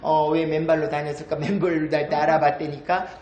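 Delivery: low standard Korean retelling; standard Korean version. Shown as a demonstration. Speaker translating the grandmothers' chat, in standard Korean. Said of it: "표준 말로 하면".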